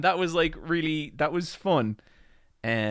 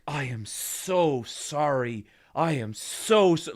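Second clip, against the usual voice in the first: slow, drawn-out over-apology; severe apology; much slower than usual. Shown as a demonstration. Explaining a Japanese apology, slow and grovelling. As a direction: stretch each word like you're mortified. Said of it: "a really severe form of apology".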